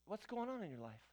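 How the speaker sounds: soft, gentle question to someone troubled; caring question. Shown as a demonstration. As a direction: ask it quietly, like you truly care. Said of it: "I'm gonna ask you".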